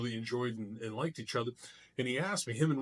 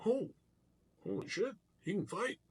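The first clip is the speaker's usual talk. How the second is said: surprised; 9 semitones higher than usual. Retold or imitated. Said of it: "he's like".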